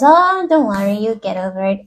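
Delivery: lightly acted parent shrugging it off; dismissive parent. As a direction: wave the child's complaint away. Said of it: "just dismisses that child and says".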